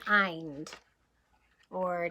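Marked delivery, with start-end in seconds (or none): 0.1-0.7 "ind" said slowly as a clear sound chunk; rhyme ending. Shown as a demonstration. Teacher showing children the rhyme sound. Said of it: "they both end in".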